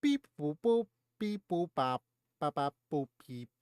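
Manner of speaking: playful robot voice beeps. Pretend. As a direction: beep like a toy robot. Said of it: "You sound like a robot".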